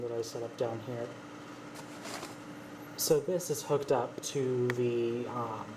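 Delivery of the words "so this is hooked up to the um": speaker feedback ringing behind voice; mic feedback. Real, not acted. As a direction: talk through audio feedback hum. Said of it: "sorry about the feedback".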